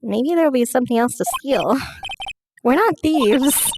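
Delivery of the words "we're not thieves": indignant. Acted. Indignant character protest.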